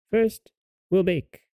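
high-pitched witch voice; old dame. A narrator's reading. Witch telling Gretel about the baking, high old-dame voice. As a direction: announce it in a high old-woman voice. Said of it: "said the old dame".

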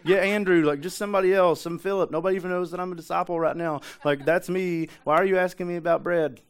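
hammed-up frantic pleading; freaking out. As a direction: act out a panicked disciple passing the buck. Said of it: "He's freaking out".

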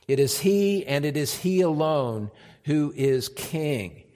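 fervent pulpit emphasis; preaching. Acted. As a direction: drive home that he alone reigns. Preaching at full force.

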